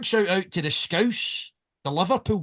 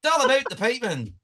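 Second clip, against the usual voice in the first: higher-pitched imitated Ulster accent; 5 semitones higher than usual. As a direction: mimic an Ulster piping-show host. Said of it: "that's how he talks".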